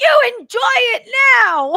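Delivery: piercing, full-volume, shrill, slow, drawn-out booming yell. Retelling yelling at her when she was afraid on the boat: retelling own yell. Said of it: "yelling at her".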